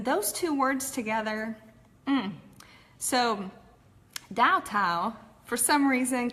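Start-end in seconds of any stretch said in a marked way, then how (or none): 4.3-5.2 "Dow tile" in a broad Texas accent, the brand name slurred. Shown as a demonstration. Mispronouncing a company name she can't say, in Texas accent. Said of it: "comes out in this crazy Texas accent".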